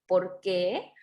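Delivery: usual speaking voice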